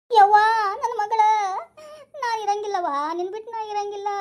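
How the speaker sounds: high crying plea to her daughter; keen over the body; sobbing lament. Acted. Mother crying she cannot live without her daughter.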